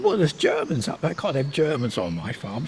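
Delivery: a hint of a stubborn old farmer; indignant farmer. Father tells mother he won't have Germans, mildly indignant. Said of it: "He said".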